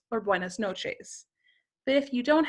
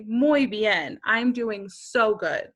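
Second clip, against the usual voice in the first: a louder, beaming "Muy bien"; mock-elated reply; happy answer; 3 dB louder, slower than usual. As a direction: sound like it's the best day of your life. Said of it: "having the best day of your life".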